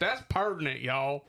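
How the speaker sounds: pertinent and y'all in a hammed-up country twang; bumpkin accent. Joking hillbilly twang for the listeners. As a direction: play a hillbilly saying pertinent. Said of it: "Why do I sound like a fucking bumpkin".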